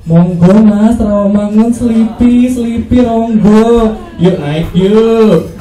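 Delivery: put-on slow, drawn-out Javanese-accented bus call; very slow Javanese conductor inviting passengers on. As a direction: lazily call stops in a gentle Javanese accent. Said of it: "kondektur bis itu orang Solo".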